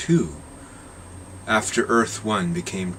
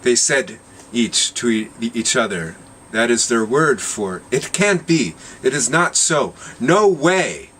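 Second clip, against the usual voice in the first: higher and louder, swept up in their amazement; excited narration; 6 semitones higher, 8 dB louder than usual. A narrator's reading. Narrator caught up in the captors' astonishment, excited. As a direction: tell it breathless with wonder, building up.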